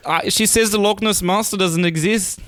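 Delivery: put-on British accent. Scientist reports to his mate that the monster isn't real, British accent. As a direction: play a baffled scientist in a loose British accent. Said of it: "You guys are getting into British territory".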